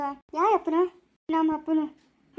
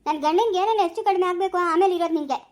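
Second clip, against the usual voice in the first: furious scolding. Acted. Accusing wife in hospital quarrel.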